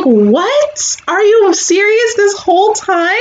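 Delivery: retold jaw-drop moment; shocked disbelief. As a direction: gasp it out like you just found out. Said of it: "and I'm just like".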